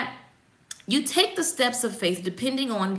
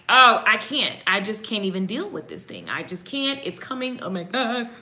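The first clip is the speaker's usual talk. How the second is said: mock overwhelm. Imitating us when trouble comes, mock helplessness. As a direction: give up with mock dread, trailing down. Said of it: "we're like".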